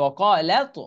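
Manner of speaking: "ওয়াকালাত" with long qaa into a heavy t; merged letters. Shown as a demonstration. Teacher repeating the merger, long middle in "ওয়াকালাত". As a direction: join lam straight to the heavy t in "ওয়াকালাত". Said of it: "এই লামটা তর সাথে যে মিলবে".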